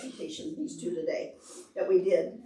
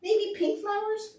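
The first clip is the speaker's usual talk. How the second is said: butterfly voice; 13 semitones higher, 3 dB louder than usual. Pretend. Voicing butterfly, pitch jump.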